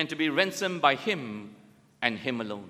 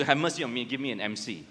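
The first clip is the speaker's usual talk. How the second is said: mock plea for a sick note; 5 semitones lower, faster than usual. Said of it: "I think some of you do".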